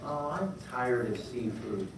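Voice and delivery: a lightly voiced penguin building to a shout. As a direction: whine then demand pasta loudly. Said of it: "looking over going".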